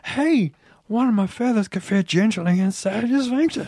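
lightly voiced creepy pelican; overexcited but creepy, lightly voiced. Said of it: "the Shitsy voice became Pierre the Pelican voice".

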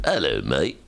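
low, rough stab at British; attempted British accent. Shown as a demonstration. Host mimics a British actor, British accent. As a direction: put on a bad British accent, pitched low. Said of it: "That's my British accent".

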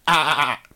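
nasal ah ah ah bleat; goat bleating. Shown as a demonstration. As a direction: imitate a goat. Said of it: "Goats sound like".

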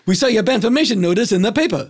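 same flat delivery every take, sped up; identical robotic line reading. Retold or imitated. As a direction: rattle it off exactly the same each time. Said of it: "he read it like this".

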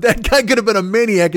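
tossing off a light Rodney impression; quoting Rodney. Recalling a favorite movie line in a light Rodney voice. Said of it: "one of my favorite lines".

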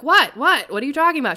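loud, high, oblivious "what?"; baffled outburst. Retold or imitated. To a friend gesturing frantically at her, loudly baffled. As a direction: fire back in loud, high-pitched confusion.

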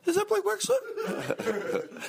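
slow falsetto mock girl; girl caller. Girl caller asking for Blake, slow high falsetto. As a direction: stretch it out in a very high girly squeak. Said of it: "the girl calls in, she goes".

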